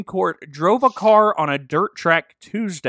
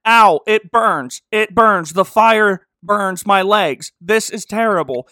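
loud pained yelps, ow ow; hammed-up cries of leg pain; getting a leg cramp; 5 semitones higher, 8 dB louder than usual. Sheriff acting leg pain.

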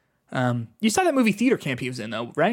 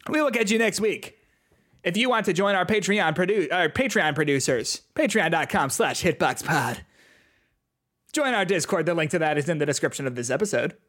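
John Mulaney; 2 semitones higher than usual. Acted. Podcaster reads the closing plugs, comedian impression. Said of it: "I'm doing the John Mulaney voice".

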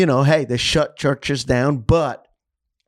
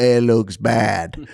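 imitating Indian accent; much slower than usual. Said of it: "this is how he talked".

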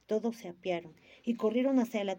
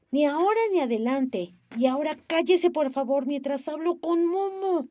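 angry command; 6 semitones higher, 7 dB louder than usual. A narrator's reading. Gigi silencing the lady.

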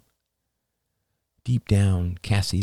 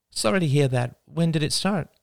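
higher, soothing mom voice; patient parent talking to a small child; gentle mother; 9 semitones higher than usual. A narrator's reading. Mother soothing her son, higher and gentle.

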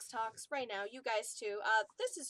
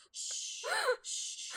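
soothing shush. Retold or imitated. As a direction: hush the dog gently. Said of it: "he's like".

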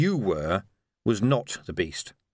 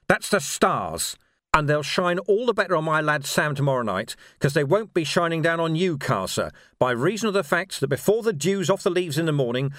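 relentless higher-pitched tirade at a captive; grim lawman, menacing; 5 semitones higher than usual. Acted. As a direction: build the threat with hard stresses.

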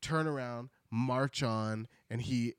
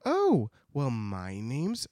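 sweet introduction; much slower than usual. Acted. Ozma to the Gnome King, sweet and slow. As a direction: introduce yourself gently, drawn out. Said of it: "Ozma's like".

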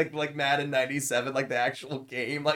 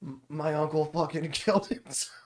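higher mock outburst cracked by a laugh; laughing through quote; 4 semitones higher than usual. Streamer quoting upset kid in guild chat, breaking into laughter. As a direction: try to quote it, lose it midway.

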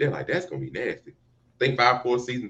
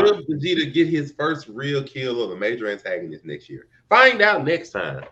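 announcer voice. Pretend. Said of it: "mock show teaser announcement".

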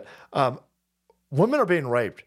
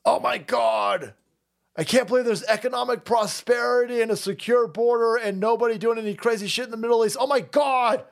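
mock pop singer; 7 semitones higher than usual. Mocking a pop singer to his viewers, high ditzy whine. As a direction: play her as a vapid airhead. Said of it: "And then she was like".

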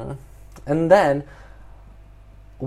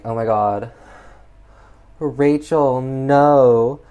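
hammed-up guilty lament, rising and swelling; guilt-ridden; 2 semitones higher, 5 dB louder, much slower than usual. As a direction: wail a mock remorseful plea. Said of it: "guilt-ridden".

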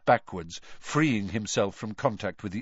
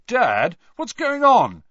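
loud, high anxious call; 12 semitones higher, 10 dB louder, slower than usual. A narrator's reading. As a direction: call to Dad across the dark. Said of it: "he called through the dark".

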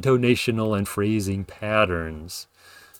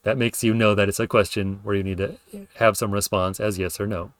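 normal talking voice

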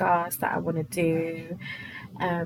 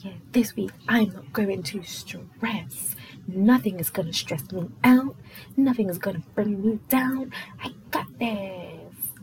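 self-assured resolve; 3 dB louder than usual. Acted. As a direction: stretch it out like a confident mantra. Acts out her start-of-week resolve.

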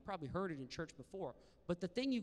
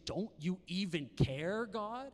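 pleading; 3 semitones higher, 3 dB louder, slower than usual. Acted. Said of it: "get to the point where you say".

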